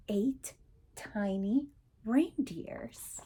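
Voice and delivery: slow, hushed whisper; soft slow whisper of wonder. Acted. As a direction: breathe it out in awe.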